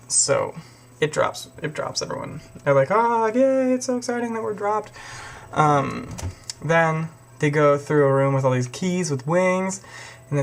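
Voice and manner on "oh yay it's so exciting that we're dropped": sarcastic cheer. Retold or imitated.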